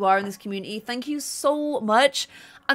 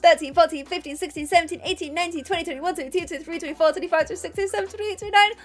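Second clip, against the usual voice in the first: excited count; 4 semitones higher, faster than usual. Real, not acted. Counting gifts aloud for chat.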